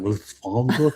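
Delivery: Lufthansa as "looth-FAHN-za", questioning; mispronounced airline name. Real, not acted. Reader puzzling over how it looks, mispronounced Lufthansa. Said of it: "He's laughing at my pronunciation".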